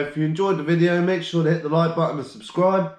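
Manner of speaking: breathless outro, words pushed out; short of breath from a cold. Real, not acted. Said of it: "I'm running out of breath".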